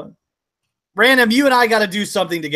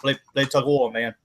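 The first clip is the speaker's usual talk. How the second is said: Boomhauer mumble; 4 semitones lower than usual. Acted. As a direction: rattle it off half-swallowed, man.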